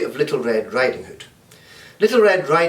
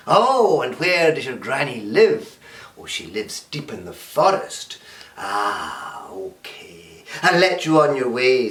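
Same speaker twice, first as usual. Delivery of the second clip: wolf voice. Acted. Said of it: "says the big bad wolf".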